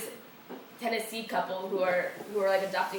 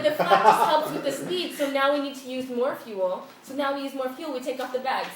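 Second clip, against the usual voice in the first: imitating the Dutch airline lady, higher and laughing; European airline lady; 4 semitones higher, 4 dB louder than usual. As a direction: laugh through her breezy reassurance. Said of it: "European to the core".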